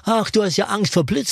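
high mocking child voice; teasing kids. Children teasing the scared dog, high mock voice. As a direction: tease him like a child.

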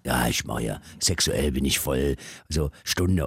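mock boastful man. Man posing about stamina.

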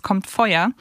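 usual speaking voice

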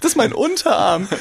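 a comic squeaky boast; mock proud reply. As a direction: pipe it up like a cocky little guy showing off. Joking bouncer sketch, guest replies.

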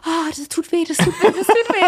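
high, fast, hammed-up wail of pain through laughter; mock pained cry. Retelling her friend crying out on the piercing couch, high mock wail. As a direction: squeal it like the needle just went in, laughing.

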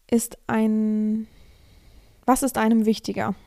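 usual speaking voice

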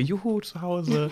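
high, drawn-out joyful cheer; happy cheer. Retold or imitated. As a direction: cheer happily about going home. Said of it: "weil ich denke".

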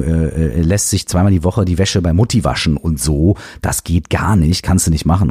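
a hint of a preachy uncle wagging his finger; lecturing uncle of reason. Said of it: "Der Vernunftsonkel, der sagt".

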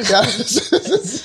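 giggling through the words; trying not to laugh; stifled giggles. Real, not acted. Giggling during taboo game.

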